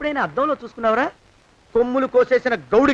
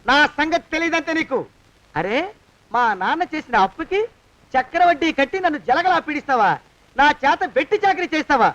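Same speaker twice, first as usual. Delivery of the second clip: furious threat. Acted. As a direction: threaten him with rising fury. Servant turns on master, threatening. (కోపంగా బెదిరింపు)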